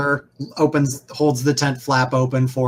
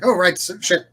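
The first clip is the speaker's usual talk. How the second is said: flustered assistant; 6 semitones higher than usual. Acted. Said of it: "the polite guy's like".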